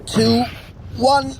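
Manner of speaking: rising strained count into a heave; effortful lift on up; straining countdown. Acted. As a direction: count up to the big pull. Hauling brother out of crater.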